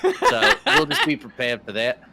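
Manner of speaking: casual put-on Aussie accent. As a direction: hold a light Australian accent. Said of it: "I'll just do the whole next game, uh, just like this".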